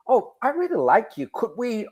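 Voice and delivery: put-on Russian accent. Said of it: "thank you both for your Russian accent".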